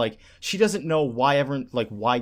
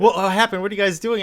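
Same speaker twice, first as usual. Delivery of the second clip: higher, louder alarmed questions; a boy captain demanding answers, pitched up; voicing little boy captain; 7 semitones higher, 5 dB louder, faster than usual. Little boy captain confronts Gin and Aizen, higher and louder. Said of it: "He's like".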